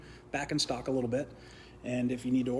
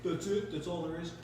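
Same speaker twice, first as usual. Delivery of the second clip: a lightly voiced dumb guy, higher pitch; 3 semitones higher than usual. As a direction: do your dumb guy voice, a bit dopey. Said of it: "That's my dumb guy voice".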